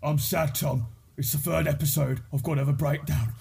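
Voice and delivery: lightly voiced mopey TV gangster; mock-sad Brummy character voice; Arthur. Mocking a show's predictable breakdown, lightly mimicked sad gangster. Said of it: "but, you know, Arthur is".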